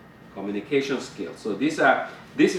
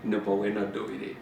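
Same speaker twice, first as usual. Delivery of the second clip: gentle kind no; 3 dB quieter than usual. Shown as a demonstration. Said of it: "There's a way to say".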